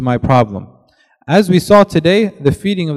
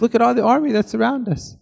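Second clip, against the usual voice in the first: much higher-pitched, mock-anxious voice; nervous servant; 9 semitones higher, 4 dB quieter than usual. Servant points out the surrounding army to the prophet, high and nervous. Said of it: "servant very nervous".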